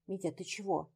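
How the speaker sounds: soft hushed question; whispered question. Acted. Лёлька asks Дмитрий in a hushed whisper. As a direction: ask under your breath. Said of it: "шёпотом переспросила она".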